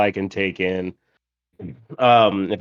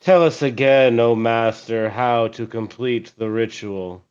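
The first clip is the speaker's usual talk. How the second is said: flat, unimpressed request to the master; deadpan; slower than usual. Acted. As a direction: say it dry and deadpan. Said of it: "In a deadpan voice".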